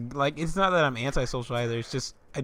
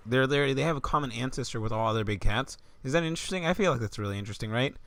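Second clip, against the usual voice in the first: lightly voiced chatterbox rambling on, at times fast; a hint of the classmate who won't shut up; nonstop talker; 2 semitones lower than usual. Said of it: "here's a fucking example of what that sounds like".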